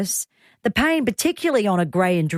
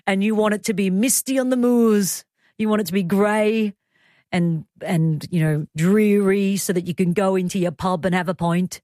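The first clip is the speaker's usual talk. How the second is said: put-on half-hearted, unplaceable British countryside accent. Host teasing sidekick about misty moors, vague mock-British accent. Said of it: "I don't know what accent that was".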